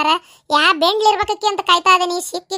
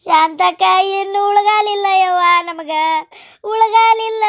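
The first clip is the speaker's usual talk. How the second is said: hammed-up lament, drawn out; tearful wail. Woman telling Shantakka they are doomed, tearful wailing. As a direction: wail as if all is lost. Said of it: "ಅದಕ್ಕೆ ಏನಾರ ಅಳಗಳಕತ್ತಾಳ ನೋಡು".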